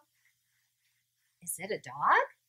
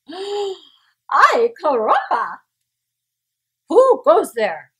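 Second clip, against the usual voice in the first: loud, higher, slowed; startled challenge; 7 semitones higher, 10 dB louder, much slower than usual. A narrator's reading. Kitten challenging the chihuahua band, loud and bold. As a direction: challenge the strangers boldly. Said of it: "said Skippy John Jones".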